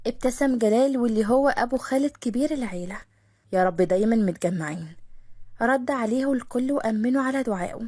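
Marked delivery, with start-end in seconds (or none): 3.5-5.0 put-on lower, content old father; fatherly blessing. (جلال الأب بصوت أوطى راضي)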